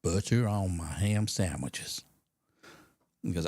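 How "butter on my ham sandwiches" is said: drawn-out, slow caller voice; imitated odd caller. Odd caller answers the radio host, slow drawn-out mock voice. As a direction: play a slow, kooky phone-in caller. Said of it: "He's a bit of a kook".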